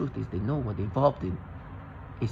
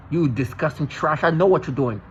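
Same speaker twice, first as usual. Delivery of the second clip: heated, louder toward the end; real angry accusation; 2 semitones higher, 5 dB louder than usual. Real, not acted. Addressing the gaslighters directly, angry accusation. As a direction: confront them with real contempt.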